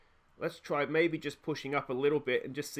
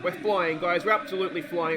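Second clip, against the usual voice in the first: buzzing; 3 semitones higher, 5 dB louder than usual. Real, not acted. Celebrating second goal.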